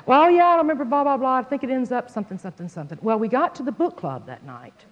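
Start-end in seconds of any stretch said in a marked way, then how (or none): 0.0-3.0 higher, louder mock husband; husband's voice. Husband recalls the book to the speaker, lightly voiced. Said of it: "he was like".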